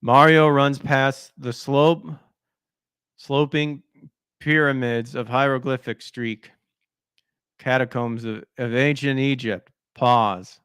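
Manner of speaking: halting, slow stumble through notes; lightly voiced Biden reading notes. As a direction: read it like a lost old politician. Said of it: "like Biden when he's reading his notes".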